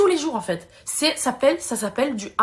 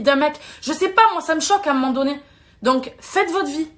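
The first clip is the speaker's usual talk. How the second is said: annoyed, animated pleading; really fed up, emphatic and insistent; worked-up annoyance; 3 semitones higher than usual. Real, not acted. Telling online commenters to mind their own lives, worked-up and annoyed. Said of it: "j'ai été énervée".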